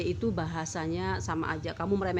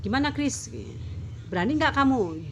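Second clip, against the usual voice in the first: high, loud pushy dare; pressing dare in a raised voice; 8 semitones higher, 4 dB louder than usual. Retold or imitated. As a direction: push him to accept. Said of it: "Dia agak mendesak saya".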